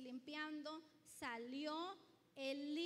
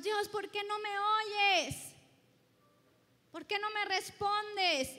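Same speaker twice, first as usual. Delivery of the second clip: louder and higher, a mock complaint to God; pleading believer; 5 semitones higher, 13 dB louder than usual. Preacher imitating a believer nagging God, mock pleading. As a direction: whine it like a frustrated petitioner.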